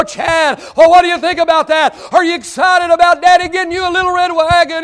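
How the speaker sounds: put-on high, loud calling out to the boy; proud dad calling his son; excited shouting dad. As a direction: shout the question, bursting with excitement. Father calls out to son.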